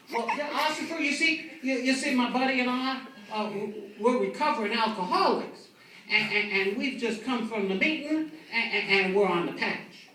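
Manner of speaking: put-on high loud slurred drunk pleading; high, loud, slurred drunk denial. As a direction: drunk begging the officer, slurring.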